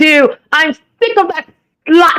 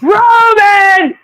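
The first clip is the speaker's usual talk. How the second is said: mock British accent; 7 semitones higher than usual. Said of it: "Using an accent in a sentence".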